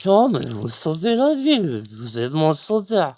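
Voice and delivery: high, gushing thanks; grateful exclamation. Retold or imitated. Telling the guard he saved him, gushing. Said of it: "je dis".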